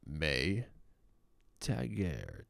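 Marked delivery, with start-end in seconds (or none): 1.6-2.4 Tager as "TAG-air", hard g; trying a pronunciation. Shown as a demonstration. Host sounding out a model's surname, trying a pronunciation.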